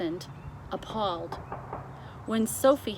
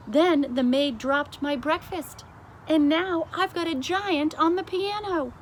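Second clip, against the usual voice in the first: rising, higher, louder complaint; harried queen; 8 semitones higher, 5 dB louder than usual. Acted. The queen vents to the king, climbing higher. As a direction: let the exasperation climb.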